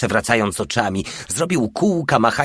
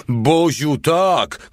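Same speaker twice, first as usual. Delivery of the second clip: high exclamation, timbre pushed; excited cry; 7 semitones higher, 4 dB louder, much slower than usual. A narrator's reading. The little one agreeing with Porta, crying out. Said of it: "krzyknął mały".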